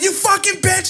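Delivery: very high mock screech; retold scream. Girlfriend cursing him while driving, imitated high scream. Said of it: "She was screaming at me".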